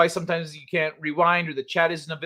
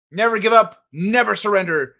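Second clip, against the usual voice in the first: sign-off motto; 3 semitones higher, 4 dB louder than usual. Real, not acted. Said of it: "echo your sentiment".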